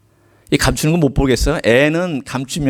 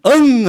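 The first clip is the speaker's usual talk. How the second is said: a child's wail, mimicked higher and louder; imitated child's wail; 10 semitones higher, 5 dB louder, much slower than usual. Preacher mimics a toddler crying in church. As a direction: cry out like a sobbing toddler. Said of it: "하고 울었어요".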